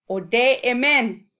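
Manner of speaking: loud, like calling to the class; shouted. Shown as a demonstration. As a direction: call the word out loud. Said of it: "Shout it".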